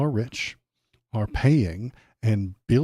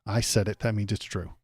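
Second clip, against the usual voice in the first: a touch of huffy, softer indignation; whiny indignant Trump; 5 dB quieter than usual. Retold or imitated. Mocking Trump's face when fact-checked, softer huffy whine. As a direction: pout and whine, offended anyone would argue. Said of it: "you make this face like".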